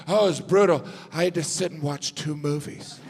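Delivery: whiny jet-lagged traveler. Retold or imitated. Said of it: "It's like".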